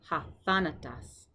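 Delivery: Hathanatas said slowly, stress on tha; slow Greek model word. Shown as a demonstration. Teacher modelling word for students, slow careful pronunciation. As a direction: spell out Hathanatas slowly for learners.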